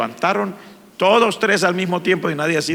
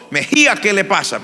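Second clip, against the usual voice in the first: louder, higher call of a teacher; 7 semitones higher, 4 dB louder than usual. Retold or imitated. Teacher waking a crying student in class, loud call. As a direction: snap the student awake by name. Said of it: "el profesor me despertó".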